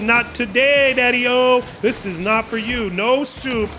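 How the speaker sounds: lightly voiced player taunt, high; mock taunt from the bumping player; a hint of a cocky rival; voicing a player. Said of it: "He says".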